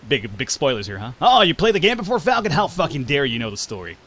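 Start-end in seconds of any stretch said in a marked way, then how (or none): 1.2-4.0 mock outrage. Gamer mimics a viewer upset by spoilers, mock outrage. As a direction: act scandalized, then settle back down.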